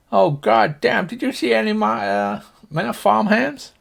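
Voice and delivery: put-on high cowboy old-timer voice; high-pitched farmer character; Slim Pickens farmer. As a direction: ask in a high, cantankerous country voice. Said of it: "If you imagine Slim Pickens".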